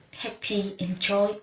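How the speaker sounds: "happy" stressed on first syllable, "enjoy" on second; stressed syllable stronger. Shown as a demonstration. Teacher giving examples of primary stress, stressed syllables clear and strong. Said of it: "stress syllable is pronounced more clearly and strongly".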